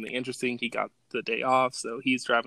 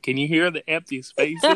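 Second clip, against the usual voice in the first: higher-pitched quoted belle line; Southern belle; 4 semitones higher, 4 dB louder than usual. Retold or imitated. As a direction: lightly mimic the Southern lady. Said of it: "Southern belle".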